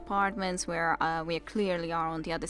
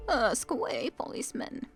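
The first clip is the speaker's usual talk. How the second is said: put-on old woman voice; 5 semitones higher than usual.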